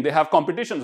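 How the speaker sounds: ordinary talk, nothing marked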